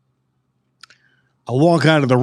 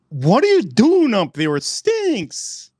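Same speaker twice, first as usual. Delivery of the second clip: much higher, shrill-pitched mock mom call; mother yelling upstairs; 8 semitones higher, slower than usual. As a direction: imitate mom shouting up the stairs. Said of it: "She goes".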